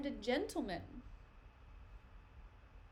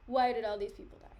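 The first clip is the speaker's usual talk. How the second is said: mock angry. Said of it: "He's angry, okay?".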